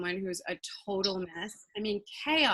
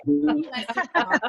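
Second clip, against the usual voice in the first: Southern drawl; 6 semitones higher, 6 dB louder, slower than usual. Pretend.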